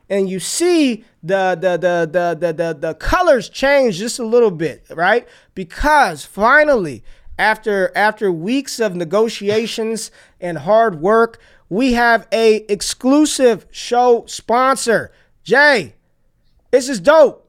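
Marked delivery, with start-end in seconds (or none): 5.5-17.4 slow, drawn-out big announcement; hype sponsor reveal. Real, not acted. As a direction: build it up like a grand reveal. Announcing new show sponsor.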